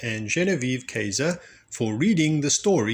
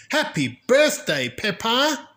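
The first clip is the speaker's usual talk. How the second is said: higher, louder birthday cheer; friends cheering; 11 semitones higher, 4 dB louder than usual. A narrator's reading. Everyone shouting greeting.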